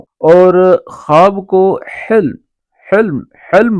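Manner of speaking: slow word demo. Shown as a demonstration. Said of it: "خواب کو حلم بولتے ہیں".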